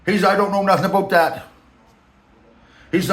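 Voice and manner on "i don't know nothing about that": higher mock boss voice, slowing at the end; Rand's voice. The boss describing his looks, in a high mocking voice. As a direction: lampoon the boss rambling about himself. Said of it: "I'm just filling in voice".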